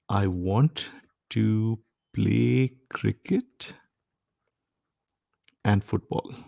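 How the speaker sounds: slow, plain "I want to play cricket and football"; the right version. Shown as a demonstration. Teacher reads the correct short sentence slowly. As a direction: lay out the sentence slowly without a second "to". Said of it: "let me give you another sentence".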